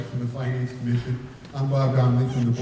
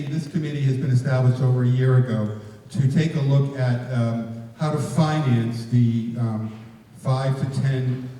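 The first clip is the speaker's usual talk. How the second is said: louder, projecting for the room; to someone hard of hearing; 4 dB louder than usual. Real, not acted. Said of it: "Speak up, please".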